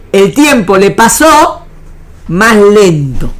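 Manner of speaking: slow each word to land the point; teacher slowing for emphasis; slow, drawn out. Shown as a demonstration. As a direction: stretch out más lento. Teacher stressing conclusion slowly.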